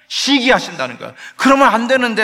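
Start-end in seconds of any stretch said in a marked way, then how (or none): 1.4-2.2 higher and louder, a grieving cry of disappointment; anguished lament, raised voice; lamenting sigh. Acted. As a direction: sigh it out like heartbroken God. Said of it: "하고 탄식하신다는 거예요".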